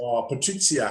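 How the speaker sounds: clumsy attempt at an Italian accent; bad Italian accent. Host repeating an attendee's name, in a bad Italian accent. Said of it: "That was the worst accent ever".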